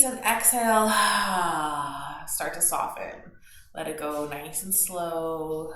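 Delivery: calm instructor cueing the breath; yoga teacher guiding a morning practice; guided yoga class. Acted.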